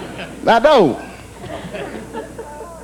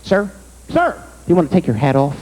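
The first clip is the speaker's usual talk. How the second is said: bouncer yelling; 3 semitones lower than usual. Retold or imitated. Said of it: "started yelling at me".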